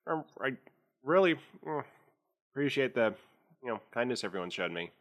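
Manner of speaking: talking through a mouthful of pancakes; words round a bite of food; mouth full. Acted. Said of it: "she says with a mouthful".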